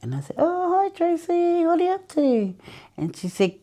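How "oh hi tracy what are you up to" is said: much higher, chirpy phone hello; bright greeting. Retold or imitated. Greeting Tracy on the phone in a much higher, chirpy voice. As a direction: sing out a cheery hello.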